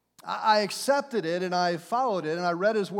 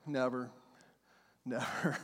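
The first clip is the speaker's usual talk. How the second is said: soft echo; 8 semitones lower, 7 dB quieter than usual. Acted.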